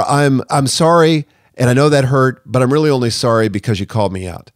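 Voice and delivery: a mock hollow apology, with "sorry" slowed and dragged; sorry only for being caught, lightly played; insincere politician apology. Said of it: "Politicians do this all the time".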